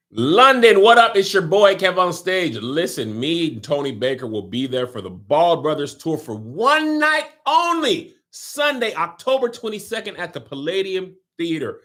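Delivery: mock London accent for the promo; playful fake British promo voice. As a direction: hype the show in a put-on British voice. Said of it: "or I will continue my British accent".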